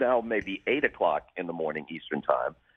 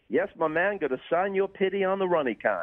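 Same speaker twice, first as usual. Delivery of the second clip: lightly put-on Pootie speak, pitched up; 9 semitones higher than usual. Sportscaster responds to a fan in playful, lightly imitated Pootie speak. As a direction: answer in mock slang, high and playful. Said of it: "he started speaking Pootie speak".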